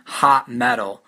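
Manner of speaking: "hot metal" with equal stress on "hot" and "met"; "hot metal" as two back-to-back beats; two stresses in a row. Shown as a demonstration. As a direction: hit both "hot" and the first syllable of "metal". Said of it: "two syllables stressed in a row".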